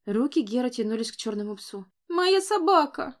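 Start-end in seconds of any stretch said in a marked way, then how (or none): 2.1-3.1 put-on high, slow childish wail; upset child. A narrator's reading. Little boy insists the dog is his, high child voice. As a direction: claim it like a crying little boy.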